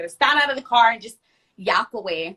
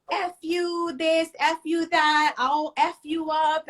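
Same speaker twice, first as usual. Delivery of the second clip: retold cursing; 7 semitones higher, slower than usual. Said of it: "she's going off".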